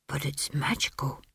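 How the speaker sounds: hushed, airy whisper; soft, low smith's whisper. A narrator's reading. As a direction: whisper it in awe of the magic. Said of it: "he whispered".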